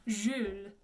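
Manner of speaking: French Jules, rounded front u; careful French name demo; French pronunciation. Shown as a demonstration. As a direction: say Jules with E in the mouth, U with the lips. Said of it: "that E in the mouth, U with the lips".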